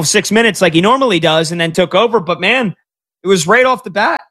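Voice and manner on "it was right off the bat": voice crack. Real, not acted. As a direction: voice cracking on the last word. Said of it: "A little voice crack there".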